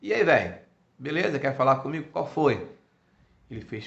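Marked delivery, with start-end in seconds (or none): 0.0-2.7 loud, easygoing Bahian street greeting; Bahian accent. Acted. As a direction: greet your brother like a laid-back guy from Bahia. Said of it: "num baianês mais próximo de todos nós".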